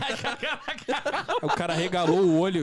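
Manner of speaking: slowed down, laughing through the words; laughing while telling. Real, not acted. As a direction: crack up as you retell it. Repeats line while laughing.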